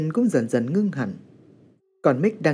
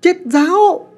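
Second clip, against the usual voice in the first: louder pleading, rising at the end; firmly calm his mother down; speaking loudly; 6 semitones higher, 5 dB louder than usual. A narrator's reading. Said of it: "anh nói to". (nói to)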